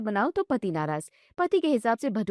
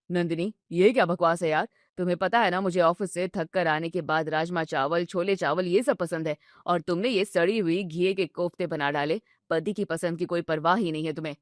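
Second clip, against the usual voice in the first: lower, sulky complaining husband voice; grumpy husband; 5 semitones lower than usual. Acted. Husband grumbling at his wife over dinner, low and sulky. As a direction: whine about dinner like a tired, spoiled son.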